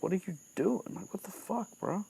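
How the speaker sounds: mock angry. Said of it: "instead he looks angry".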